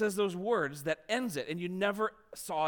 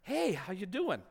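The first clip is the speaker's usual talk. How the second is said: gentle question; 4 dB quieter than usual. Retold or imitated. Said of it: "very gently asks".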